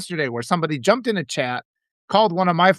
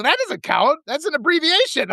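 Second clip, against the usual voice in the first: higher-pitched retold objection, mildly indignant; mock indignation; 8 semitones higher than usual. Mother retells daughter arguing over a word, mildly indignant. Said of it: "then she was mad".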